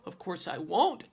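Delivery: sassy retort with a rising end; talking back. Acted. Daughter talking back to her mother, sassy retort. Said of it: "I talked back".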